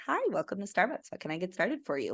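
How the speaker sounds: fast, bright barista greeting; chirpy service-counter script, quick; customer service voice. Retold or imitated. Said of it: "my stern voice is so not my customer service voice".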